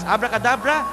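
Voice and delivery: grand magic word; magician's incantation. Acted. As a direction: proclaim the spell. Magician casts the trick.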